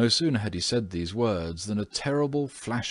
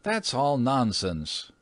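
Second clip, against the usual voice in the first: slow, higher scoff; scoffing cry; 6 semitones higher, slower than usual. A narrator's reading. Washington dismisses the housekeeper's tale, with a slow scoff. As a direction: brush the ghost story off. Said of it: "cried Washington Otis".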